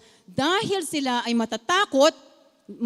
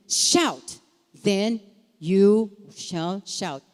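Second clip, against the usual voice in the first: slow, deliberate reading of the command; scripture reading; slower than usual. Acted. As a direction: lay the verses out slowly, word by word.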